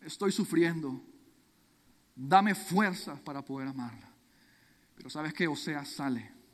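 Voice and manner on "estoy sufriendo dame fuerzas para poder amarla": pleading prayer. Acted. Hosea at his bedside begging God to bring Gomer back. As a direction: plead with God for his wife to come home.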